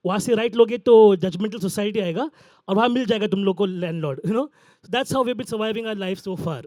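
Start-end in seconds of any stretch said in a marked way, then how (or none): 0.1-4.2 rattled off fast like a shopkeeper pointing the way; quick-fire street directions, lightly voiced shopkeeper; shopkeeper giving directions. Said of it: "And he's like".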